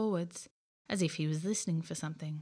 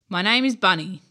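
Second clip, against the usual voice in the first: creature voice; 10 dB louder than usual. Acted. Creature introduces itself.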